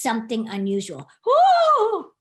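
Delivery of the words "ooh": squealing surprised ooh; loud high ooh. Acted. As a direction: gasp out a delighted ooh. Reader discovers something unusual.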